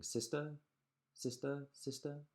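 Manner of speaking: high calling voice; calling into cave. Acted. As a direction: call out to her sister in the cave. Duck calls into the cave.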